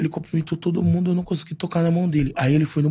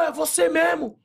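much higher, incredulous voice; imitating himself; 11 semitones higher, slower than usual. Fan asking Neymar in disbelief, high and surprised. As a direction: act stunned it's really you. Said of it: "Aí eu".

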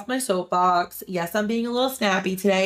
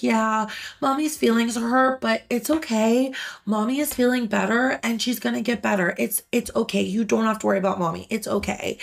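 reassuring mom; 3 semitones higher than usual. Retold or imitated. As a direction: soothe a worried child. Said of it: "I was like".

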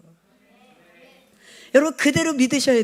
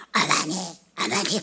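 lightly voiced soldiers calling; 6 semitones lower than usual.

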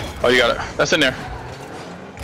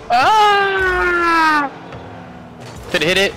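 hyped gamer bro; much slower than usual. Real, not acted. Hyped moment in Rocket League.

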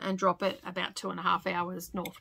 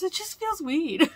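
put-on higher, slow, sheepish teen voice; imitating her daughter; 9 semitones higher, 4 dB louder than usual. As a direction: drag it out like an awkward teenager. Quoting daughter Savannah.

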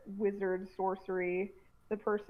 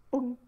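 mouth-made champagne cork pop; champagne pop noise; 2 semitones higher than usual. Retold or imitated. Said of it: "let me try and imitate the noise".

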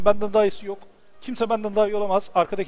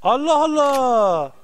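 higher, baffled "what is happening"; real confused surprise; 8 semitones higher, slower than usual. Real, not acted. Streamer baffled by the game, higher exclamations. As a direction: throw up your hands at the game.

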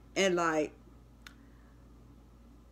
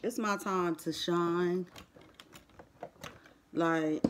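hushed and subdued; 3 semitones lower, 7 dB quieter than usual. Real, not acted. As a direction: speak low, almost praying. Quiet prayerful thanks after loss.

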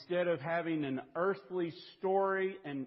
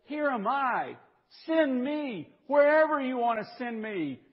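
eager offer, called out; 10 semitones higher, 7 dB louder than usual. Retold or imitated. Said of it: "who says".

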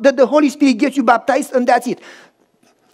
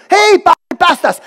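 higher, louder, startled call; surprised shout; 7 semitones higher, 6 dB louder than usual. Retold or imitated. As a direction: react in disbelief at being overtaken. Swimmers surprised at being passed.

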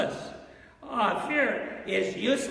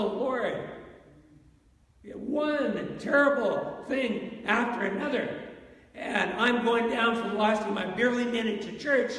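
desperate prayer; 3 semitones higher than usual. Retold or imitated. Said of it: "And we can say".

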